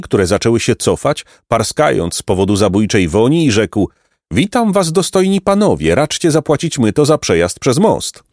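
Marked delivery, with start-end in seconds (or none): 4.3-8.2 high, fawning greeting; bow and ask for the toll; oily old count. Acted. The smelly count greeting the riders, fawning.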